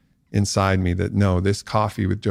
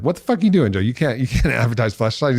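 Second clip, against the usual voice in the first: mock outraged manager; 3 semitones higher, faster than usual. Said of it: "his management team was like".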